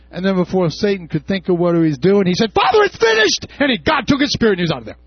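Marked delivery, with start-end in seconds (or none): 2.5-3.5 high, loud cry of victory; triumphant cry. Acted. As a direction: call it out in triumph. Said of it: "cried with a loud voice".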